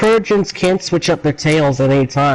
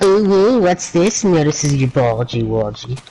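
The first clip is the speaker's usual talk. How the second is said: excited owo voice. Acted. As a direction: play it like an excited furry. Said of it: "Owo is like".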